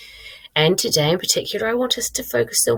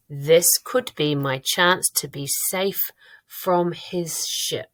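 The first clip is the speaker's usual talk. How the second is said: slow, careful word-by-word read-aloud; really slow reading; slower than usual. Shown as a demonstration. Teacher checking whether sentences sound right, really slow reading. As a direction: read slowly to catch the errors. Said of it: "I'm gonna read it really slowly".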